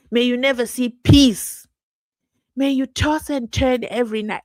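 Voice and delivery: mock curse. Real, not acted. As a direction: lay a curse on them, savouring it. Cursing the officials.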